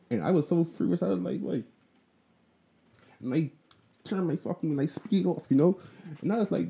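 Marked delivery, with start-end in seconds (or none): 0.1-5.4 furious retelling. Real, not acted. Furious on the road.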